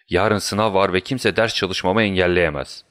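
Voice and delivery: slow, insistent irritation; angry roar. Acted. Student refusing interruption before an exam, irritated. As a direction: spell it out crossly, with measured anger. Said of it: "diye kükredi sinirli bir ses".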